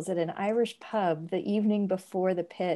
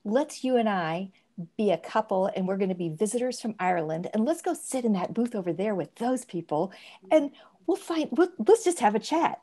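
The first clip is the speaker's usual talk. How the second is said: put-on Irish accent. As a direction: pitch the idea in an Irish brogue. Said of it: "he's already speaking in an Irish accent".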